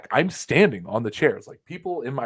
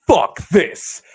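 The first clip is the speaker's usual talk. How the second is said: louder, higher mock fed-up snap; retold angry outburst; 7 semitones higher, 9 dB louder than usual. Fan quitting the show, mock angry outburst. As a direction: spit it out, fed up. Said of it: "this guy just goes".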